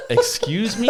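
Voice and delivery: high, laughing disbelief; mock disbelief. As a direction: act floored by the news. Shocked reaction.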